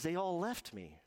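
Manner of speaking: a hint of a hurt child's wail; tearful little boy. Boy telling granddad he was abandoned, mildly tearful. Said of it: "And he was crying".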